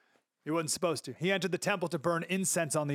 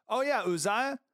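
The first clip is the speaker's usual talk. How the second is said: offhand mock remark; 5 semitones higher than usual.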